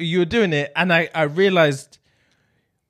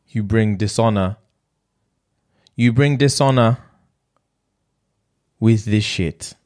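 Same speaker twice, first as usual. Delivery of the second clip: mock Japanese accent; 4 semitones lower than usual. Shown as a demonstration. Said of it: "We'll go Japanese".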